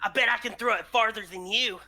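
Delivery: put-on quick boastful child; little boy voice. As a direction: show off like a small boy.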